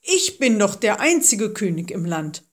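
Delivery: startled king. Acted. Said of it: "rief er erschrocken".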